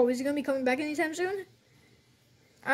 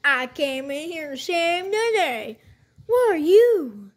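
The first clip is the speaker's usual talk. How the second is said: cowboy voice; 3 semitones higher, 4 dB louder, slower than usual. Pretend. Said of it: "Why do you sound like a cowboy?".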